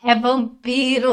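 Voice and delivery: Bella as Araci. Pretend. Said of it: "Mas agora imita a Bella. Fazendo Araci".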